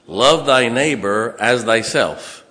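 weighty, drawn-out verse read loud; loud, slow scripture reading. Acted. Preacher slowly reading love fulfils the law, loud. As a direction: lay each word down slowly and loud.

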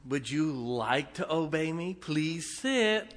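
sugary pleading, rising at the end; mock polite request. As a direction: pretend to ask a dog nicely. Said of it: "I don't say".

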